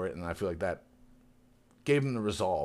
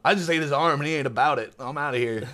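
startled sea monster; 5 semitones higher, 6 dB louder than usual. Retold or imitated. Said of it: "the monster's like".

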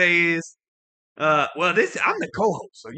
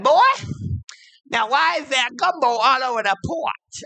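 mama scolding; 8 semitones higher than usual. Retold or imitated. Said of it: "she said".

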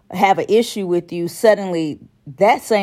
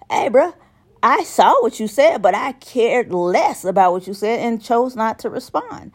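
dismissive message; 4 semitones higher than usual. Retold or imitated. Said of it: "I want you to know".

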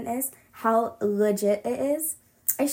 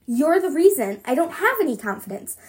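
voice shaking; 4 semitones higher, 5 dB louder than usual. Acted. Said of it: "my voice shaking".

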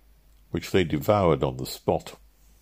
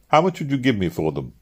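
higher-pitched, abrupt question; sudden demand; 6 semitones higher than usual. Acted. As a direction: put it to him all at once. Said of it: "I demanded suddenly".

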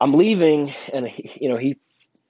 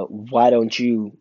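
slow, louder emphasis on "why don't you"; demonstrating a pushy challenge; mildly aggressive; 6 dB louder, much slower than usual. Shown as a demonstration. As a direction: lean hard and slowly into each word. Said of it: "in an aggressive sense".

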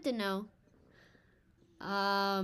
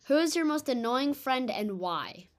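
choppy, warbling internet connection; glitching call audio; 3 semitones higher, 4 dB louder than usual. Real, not acted. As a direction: voice breaking up over a bad call. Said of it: "Bro, you're glitching out so bad".

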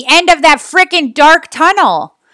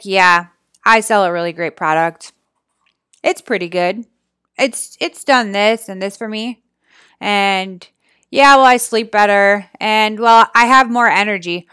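low, soft, listless sales pitch; mock unenthusiastic; 5 semitones lower, 4 dB quieter than usual. Coach imitating a bored seller pitching a product, listless. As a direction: drone it halfheartedly with no inflection. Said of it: "when you're talking like that".

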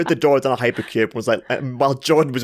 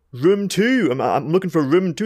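mock high insistent ask; 7 semitones higher than usual. Retold repeating request to staff.

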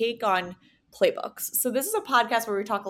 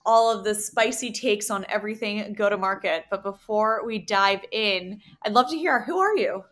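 lively, upbeat welcome to a guest; bright host opener, building up; upbeat podcast host intro; 3 dB louder than usual. Acted.

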